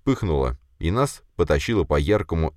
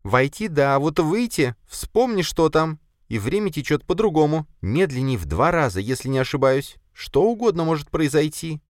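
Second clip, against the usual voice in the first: high spider voice, warning and fretting; anxious spider; 11 semitones higher than usual. Acted. Spider warns her master about the twilight world, high and fretful. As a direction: list the dangers in the spider's voice.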